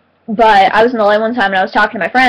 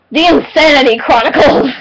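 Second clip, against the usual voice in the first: mock title announcement; 4 semitones higher than usual. Announces made-up title of her autobiography.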